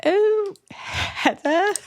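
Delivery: high, drawn-out mock British, laughing; British accent attempt. Answering a demand to speak British, laughing mock-British accent. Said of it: "you're not speaking in a British accent".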